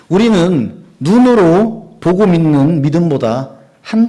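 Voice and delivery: 천천히 힘주어 선포하는 설교; 회중을 향해 강하게 권면. Real, not acted. (성도에게 강하게 권면하는 설교 선포)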